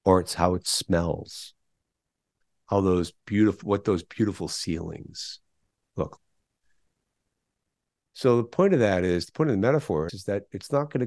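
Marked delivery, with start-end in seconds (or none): 0.0-6.2 lightly imitating a Boston accent; a touch of Robin Williams in Boston. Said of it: "Robin Williams' best Boston accent".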